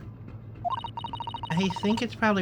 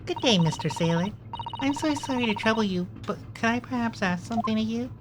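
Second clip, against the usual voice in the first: polite request; 5 semitones higher than usual. Acted. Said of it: "let me try instead".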